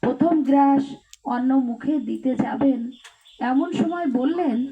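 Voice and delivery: mic too close to mouth; speaking right into the mic. Real, not acted. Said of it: "মাইকটা একটু দূরে নাও". (মাইকের খুব কাছে কথা বলা)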